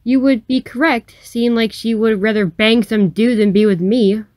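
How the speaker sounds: saying sadly. Acted. Jordan tells stranger about cheating girlfriend, mildly sad. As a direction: admit it with a touch of sadness. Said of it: "Jordan said sadly".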